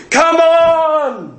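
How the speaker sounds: high mock crowd yell of Come on; mock rugby shout. Preacher imitating fans at a rugby match, mock crowd shout. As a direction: cheer like a rugby fan, hammed up. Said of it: "they're there shouting".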